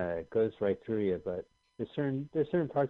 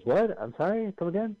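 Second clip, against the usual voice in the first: baffled Daltrey; 9 semitones higher than usual. Retold or imitated. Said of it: "Robert Daltrey says".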